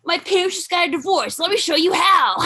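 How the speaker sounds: high, loud, bubbly YouTuber intro; happy YouTube host. Retold or imitated. Mocking YouTube hosts, high, gushing and cheerful. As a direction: gush like a relentlessly cheerful vlogger. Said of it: "They're just like".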